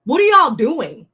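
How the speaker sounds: fed-up viewer venting at the show, exasperated. Real, not acted. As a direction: throw up your hands at them. Exasperated at the show's producers.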